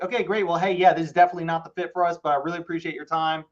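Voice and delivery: quick, courteous wrap-up, eager to hang up; polite brush-off. Retold or imitated. Agent ending a call with the wrong seller, quick and polite. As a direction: brush them off kindly and fast. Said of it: "get off the phone politely".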